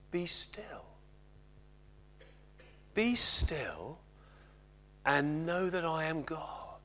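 hushed, reverent whisper. Acted. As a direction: breathe the words softly, barely voiced. God's words quoted, hushed.

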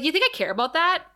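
high, fast, incredulous retort; mock-indignant Buffy. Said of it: "And Buffy's like".

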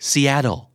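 "Seattle" said like "see-addle"; American flap T. Shown as a demonstration. Teacher naming an American city, flap T. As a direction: tap the T in "Seattle" as a D. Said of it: "T ที่อยู่กลางคำแล้วกลายเป็นเสียงตัว D".

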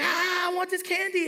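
mock toddler tantrum; tantrum-throwing kid. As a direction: wail it like a kid on the store floor. Kid throwing tantrum in store, retold.

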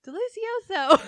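high, loud, laughing imitation of the dad; mock dad. Dad at breakfast, repeating the word: high, loud, laughing imitation. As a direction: squeeze it out high through laughter. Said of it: "her dad's just like".

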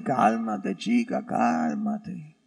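low, slow, lightly Cuban soothing; low mock-Cuban reassurance; slight Cuban accent. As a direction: draw it out with a touch of Cuban. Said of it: "Tenía un acento un poco cubano".

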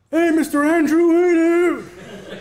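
put-on high, excited kid voice calling out; kids greeting teacher. Students spot their teacher on the show, high excited greeting. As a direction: mimic a student spotting their teacher online. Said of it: "like, students of mine, like".

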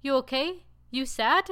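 put-on high-pitched little kid asking; concerned toddler. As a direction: imitate a worried two-year-old checking on mom. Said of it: "my two-year-old, like, came over and said".

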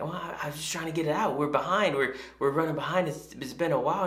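mock hurried excuse. Employees making excuses to the boss.

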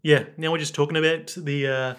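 hesitant imitated Scouse accent; a famous singer. Musician discussing the album, put-on Liverpool accent. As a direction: fumble along in fake Liverpudlian. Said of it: "what's the singer's voice?".

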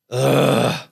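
imitated drawn-out groan; mock put-upon "ugh"; reluctant groan. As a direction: groan at a tiresome request. Daughter's groan, retold again.

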